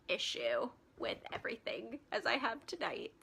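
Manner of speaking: whispered, worn-out aside; exasperated whisper. Real, not acted. Streamer complaining to viewers about broken tech, exasperated whisper. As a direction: let the frustration slip out in a whisper.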